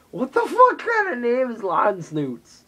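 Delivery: loud, high, slow incredulous outburst; baffled and laughing at the name; disbelief. Real, not acted. Reacting to a ridiculous name, loud incredulous outburst.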